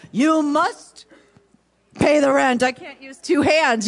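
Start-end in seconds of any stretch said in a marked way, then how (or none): 0.1-2.6 louder menacing villain demand; mustache twirling villain. Acted. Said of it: "You either have the mic or the mustache".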